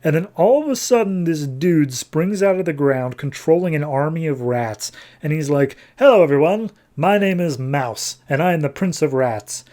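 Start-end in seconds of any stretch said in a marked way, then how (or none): 6.0-9.6 grand self-introduction. Retold or imitated. Rat prince greets everyone, in a mildly showy voice. Villain announces himself to all.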